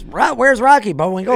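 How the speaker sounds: high, loud jokey taunt; mock bit to a charging man; nervous joking. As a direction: joke your way out of a fight. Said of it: "fight or fucking bit mode".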